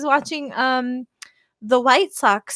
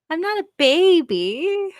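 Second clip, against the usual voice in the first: indignant protest; 7 semitones higher than usual. Real, not acted. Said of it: "why it bothers me so much".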